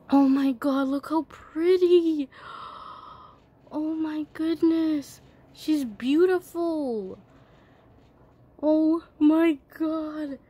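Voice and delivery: slow, drawn-out delighted gushing. Real, not acted. Girl admiring her new toy, gushing. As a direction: savour every word with delight. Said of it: "I'm so excited".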